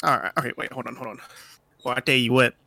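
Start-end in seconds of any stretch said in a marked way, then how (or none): 1.8-2.6 put-on southern accent. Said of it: "where's that southern accent".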